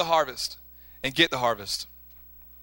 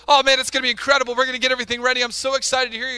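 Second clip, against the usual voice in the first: excited mother; 5 semitones higher, 4 dB louder, faster than usual. Retold or imitated. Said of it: "she says".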